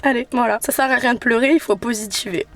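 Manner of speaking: through tears, pushing positivity; crying but trying to cheer up; teary. Real, not acted. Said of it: "Je vous dis ça en larmes".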